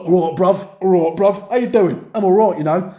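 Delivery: mock London accent, same voice for each speaker; punchy imitation of samey London chat; identical London voices. New recruits greeting each other, identical mock London voices. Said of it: "they had the exact same voice".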